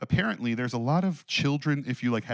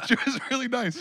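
laughing; 4 dB louder than usual. Real, not acted. Laughing after the story.

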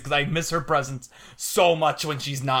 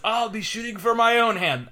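a light imitation of Merida's line read, pitched higher; mock Merida line read; 8 semitones higher than usual. Fan quoting the movie's iconic line to the podcast hosts, lightly mimicking Merida. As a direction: quote the heroine's iconic line with a hint of her delivery. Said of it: "the way she says".

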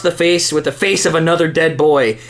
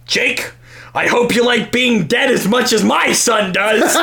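angry; 5 semitones higher than usual. Acted. Menacing shouted threat.

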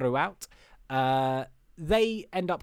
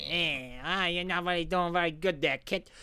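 slimy director; 2 semitones higher than usual. Retold or imitated. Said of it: "slimy lizard director".

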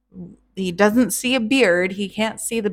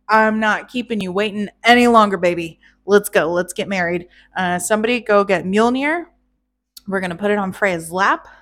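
eager groom; 4 dB louder, faster than usual. Acted. Eager groom voiced by narrator.

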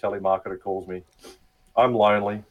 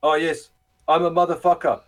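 higher, cocky retort; mock scammer taunt; 7 semitones higher, 3 dB louder than usual. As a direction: throw the insult back with glee. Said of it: "And he goes".

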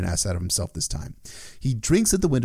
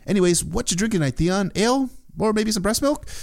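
high, fast, teasing mockery; mocking sister; 10 semitones higher than usual. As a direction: taunt him like a smug big sister. Narrator voices Asha mocking Theon.

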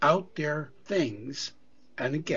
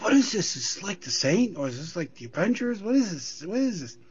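puzzled; 5 semitones higher than usual. Retold or imitated. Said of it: "I'm like".

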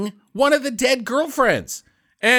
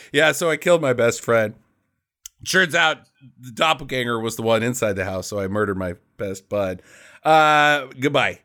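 lower, flat-toned retelling of the guy; mock deadpan confession; 9 semitones lower than usual. Retelling the hero confessing a killing, mock deadpan. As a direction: play it casual, as if nothing happened.

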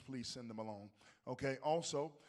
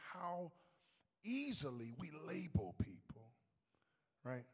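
slow breathy whisper; 3 semitones higher, slower than usual. Acted. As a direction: drop to a hush for effect. Sermon point, dropped to whisper.

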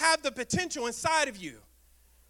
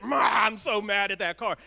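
mock angry driver; 4 semitones lower, 3 dB louder than usual. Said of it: "You get all mad at it".

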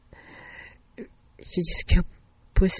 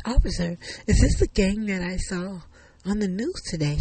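louder, slightly higher acted question; urgent question; 3 semitones higher, 5 dB louder than usual. Shaken driver asks officer about the gang, urgent. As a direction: ask it urgently, voice raised.

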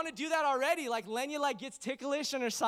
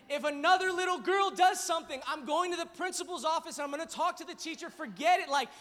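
louder, fierce protective vow; protective lion; 5 semitones higher, 6 dB louder than usual. Real, not acted. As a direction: roar it like a lion guarding his cub. Preacher vows to protect daughter.

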